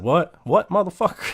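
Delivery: clown snapping back at his bullies; a mild take on Pennywise talking back; Pennywise comeback. Retold or imitated. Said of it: "if Pennywise would've said".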